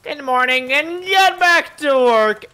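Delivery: mock boss. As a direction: order the lazy workers back, dragging it out. Bossing pals at base.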